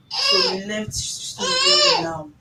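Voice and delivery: high tearful wail; words breaking into a cry. Real, not acted. Pressed about the missing boyfriend.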